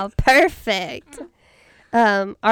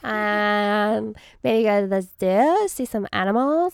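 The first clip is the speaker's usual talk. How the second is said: put-on Valley Girl voice. Shown as a demonstration. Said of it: "We'll help you".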